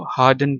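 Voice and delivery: British-style "हार्डन", long a straight into d; silent R. Shown as a demonstration. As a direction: say "हार्डन" with the R dropped. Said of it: "इसको हार्डन पढ़ना".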